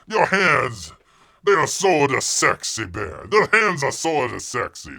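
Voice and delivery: loud, hammed-up whiny bear; mock bear voice. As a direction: whine it out like a fed-up bear. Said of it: "And the bear is like".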